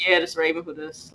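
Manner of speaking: curt and short. Retold or imitated. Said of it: "I was real short".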